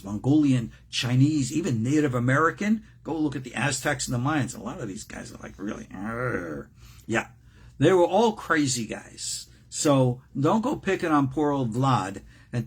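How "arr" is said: low mock growl. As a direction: growl like a crazy warrior. Mimics fierce ancient leaders.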